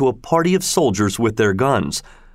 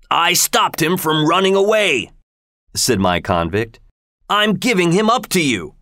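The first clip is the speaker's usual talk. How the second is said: raised, rough convict voice; 7 semitones higher than usual. Acted. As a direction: hand him over like a convict. Convict hands over rival.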